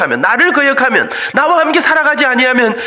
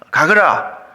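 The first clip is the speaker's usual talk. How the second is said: God's voice; 7 semitones lower, much slower than usual. Acted. God answers Moses' excuse.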